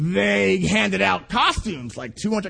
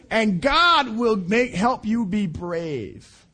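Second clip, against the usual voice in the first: slow encouraging; much slower than usual. Real, not acted.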